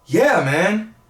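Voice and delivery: choked-up laughter, high and loud; laughing through tears. Real, not acted. Man asked about his late father, laughing and tearing up. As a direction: laugh while the tears come. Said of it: "Now you're gonna make me cry again".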